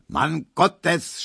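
hoch, empört herausgeschrien; geschrien. A narrator's reading. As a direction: ein entnervter Aufschrei. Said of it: "schrie der". (Markowski schreit Emil empört an)

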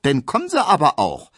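a flirty maid calling after him; alluring smile. A narrator's reading. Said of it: "mit ihrem verlockendsten Lächeln".

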